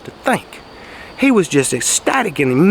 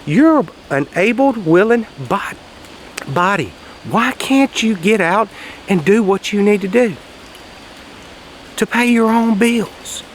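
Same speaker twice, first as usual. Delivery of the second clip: higher, slow incredulous lecture; judging disbelief; 4 semitones higher than usual. Retold or imitated. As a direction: look down on them, spelling it out. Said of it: "I'm looking at these folks like".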